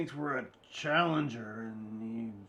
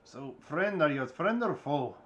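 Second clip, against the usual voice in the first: put-on Russian accent; 2 semitones higher, 4 dB louder than usual. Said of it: "Russian kind of accent".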